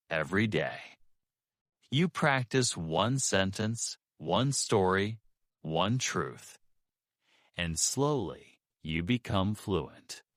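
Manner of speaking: natural, even conversational rhythm; medium flow. Shown as a demonstration. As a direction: connect the words like a gentle wave. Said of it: "Say this with natural flow".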